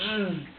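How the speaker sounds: high, tense "mm" of agitation; agitated grunt. Retold or imitated. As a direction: imitate bottled-up frustration in one sound. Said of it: "just be so agitated".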